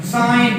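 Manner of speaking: साइन said with no G before the N; silent G. Shown as a demonstration. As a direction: leave the G of "sign" silent in साइन. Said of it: "जी silent हो जाता है".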